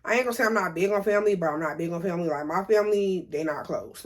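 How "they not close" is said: whispered aside. Real, not acted. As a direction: whisper "they not close" under her breath. Confiding about her family.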